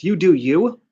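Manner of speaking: mock. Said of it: "I wanna punch him".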